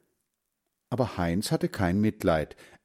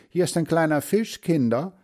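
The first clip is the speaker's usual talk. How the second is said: higher-pitched mother duck voice; 8 semitones higher than usual. A narrator's reading. Mother duck offers her children a fish, motherly duck. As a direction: offer food to the little ones. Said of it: "sagte sie".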